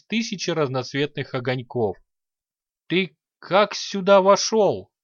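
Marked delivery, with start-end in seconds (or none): 2.9-4.9 slow, high, louder astonished question; stunned. A narrator's reading. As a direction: blurt it out dumbfounded, stretching the words. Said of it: "ошалело выдохнул Горец".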